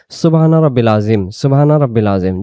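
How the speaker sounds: quick careless Subhana Rabbil Azim; wrong way. Shown as a demonstration. Teacher showing the mistake students make. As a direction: rattle off "সুবহানা রাব্বিল আযীম" the common wrong way. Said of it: "তাহলে উচ্চারণের এখানে ভুল হয়ে যাবে".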